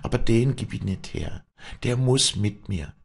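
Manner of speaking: high, firm dialect voice; Walli, determined. Acted. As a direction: insist on keeping what you love. Walli refuses to give up vulture.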